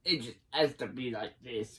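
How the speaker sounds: raspy British voice; Thunderbird voice. Shown as a demonstration. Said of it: "with a very good raspy voice".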